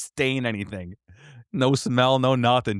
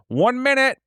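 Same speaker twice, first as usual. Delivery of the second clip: mock angry yell; 14 semitones higher, 5 dB louder than usual. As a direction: yell it high and loud at the dogs. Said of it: "this guy's like".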